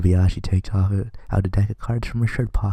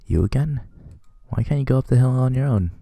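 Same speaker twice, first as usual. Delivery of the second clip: put-on lightly raised, timid girl's voice; shy schoolgirl voice; 5 semitones higher than usual. Shy classmate questioning Okazaki at the hill, lightly higher girl voice.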